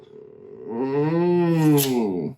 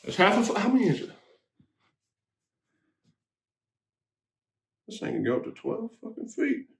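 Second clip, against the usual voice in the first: exaggerated cartoon intonation; 5 semitones higher, 5 dB quieter, faster than usual. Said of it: "why are you talking like this?".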